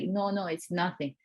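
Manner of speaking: understated, kindly no-trouble tone; retold kindly reassurance. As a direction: imitate a kind stranger brushing it off. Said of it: "he was so kindly".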